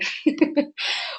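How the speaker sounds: breathy laugh at a slip; cracking up mid-line. Real, not acted. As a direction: laugh off the stumble. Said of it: "sorry, let me start again".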